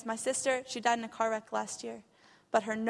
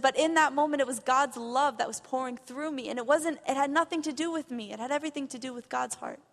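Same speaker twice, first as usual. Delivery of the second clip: rising, louder, overwhelmed retelling of her words; moved testimony; 3 semitones higher, 6 dB louder than usual. Retold or imitated. Retelling the intern's words to the church, louder and moved. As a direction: carry her words up with wonder. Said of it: "She said".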